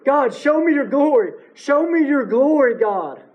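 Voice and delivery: imploring, as Moses begging God; earnest retold plea; pleading. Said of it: "We see, we see Moses pleading".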